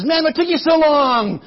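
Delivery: a host annoyed by the wait; lightly voiced impatient king; a hint of impatient king. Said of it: "Balak comes out and says".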